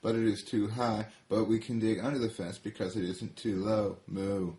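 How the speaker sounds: eager cow explaining the plan; lightly voiced cow; different cow. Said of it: "said a different cow".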